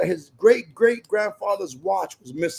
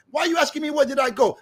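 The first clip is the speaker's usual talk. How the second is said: exasperated snap; 5 semitones higher, faster than usual. Retold or imitated. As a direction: throw the question back at her, annoyed. Husband snapping at wife.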